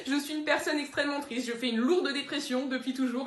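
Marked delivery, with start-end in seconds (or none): 0.0-1.5 laughing through it. Acted. Deadpan sadness broken by laughter.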